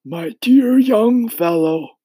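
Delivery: high, slow, drawn-out address; indulgent, high-pitched old insect; gentle old grasshopper. Acted. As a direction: address a youngster kindly in a high creature voice. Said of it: "the old green grasshopper said gently".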